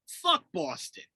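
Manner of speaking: slow, drawn-out curse; emphatic declaration. Retold or imitated. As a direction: stretch each curse out for effect. Announced favorite line, delivered with relish.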